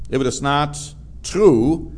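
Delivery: true pressed firmly at the close; preacher insisting on true; stress on true. Shown as a demonstration. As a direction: lean on true as the key word. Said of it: "and I emphasize the word true".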